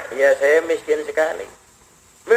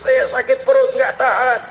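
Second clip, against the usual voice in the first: groaning in pain; 5 semitones higher than usual. Acted. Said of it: "Dengar orang sedang mengerang, mengeluh, merintih".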